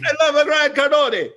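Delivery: high, loud put-on gushing fan; excited fan voice. Stranger in Marbella gushing over Grant, high and loud. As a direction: mimic a starstruck stranger gushing. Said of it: "I said".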